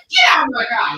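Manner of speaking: loud shouted command; retold order. Driver's final order to leave the car, shouted. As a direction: kick him out, shouting. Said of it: "He was like".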